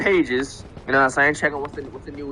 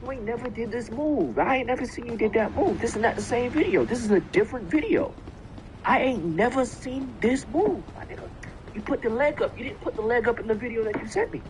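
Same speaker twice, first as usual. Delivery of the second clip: raised, incredulous accusation; accusing ex; 6 semitones higher, 3 dB quieter than usual. Retold or imitated. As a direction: call her out on the move. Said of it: "I'm like".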